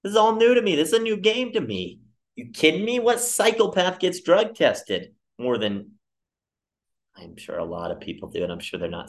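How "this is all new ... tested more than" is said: indignant, voice jumping up; exasperated outburst. Retold or imitated. Job seeker protesting to cranky clerk, high and exasperated. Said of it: "And you're like".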